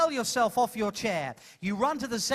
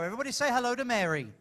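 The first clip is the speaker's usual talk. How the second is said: quick, lively call to the audience; rallying the crowd; 2 semitones higher, much faster than usual. Real, not acted. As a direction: get them to greet her.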